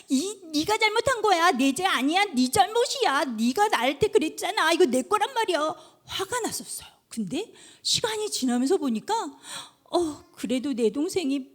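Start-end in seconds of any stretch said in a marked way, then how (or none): 0.1-5.8 mild mock anger, a child blaming a sibling; a touch of childish indignation; angry child. Child blaming the little brother who fell, mildly mock angry. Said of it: "그때는 막 화가 나서".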